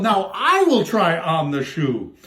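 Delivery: slow, odd voiced sister; lightly hammed sister yell; mock yell. Sister number two yells at the prince, mock. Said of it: "who yelled".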